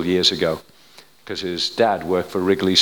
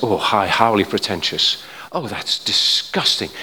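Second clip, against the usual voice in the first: hammed-up disgust, drawn out; mock disapproval; 3 dB louder, slower than usual. Preacher mimicking a critic of his booked ticket, mock disgust. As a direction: play an appalled objector, slowly. Mimics someone objecting to assurance.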